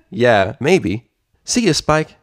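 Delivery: lightly voiced cheerful princess; cheerful Twilight.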